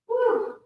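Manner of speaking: high whoop of relief; high woo. Real, not acted. Overheated, whooping at the sweat.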